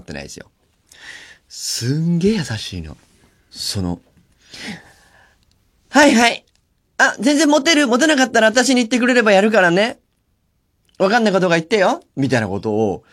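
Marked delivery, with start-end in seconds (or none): 5.9-12.0 high, sugary voice of a doting boss; overly sweet boss. Retold or imitated. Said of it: "すんげえ大きな声で言ってんのね". (甲高く甘ったるい上司の声)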